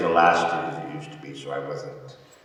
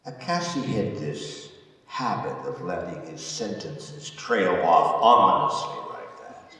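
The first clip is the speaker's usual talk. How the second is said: theatrical telling with weighted pauses; prison warden's monologue; 3 semitones higher, 4 dB louder, slower than usual. Acted. Warden tells of prisoners' fates, dramatic monologue.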